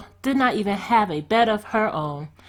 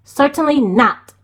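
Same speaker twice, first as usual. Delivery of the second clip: loud, high harsh refusal; stepmother's cold loud no; stern refusal; 6 semitones higher, 8 dB louder than usual. A narrator's reading. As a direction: shut her down loudly. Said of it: "said her stepmother".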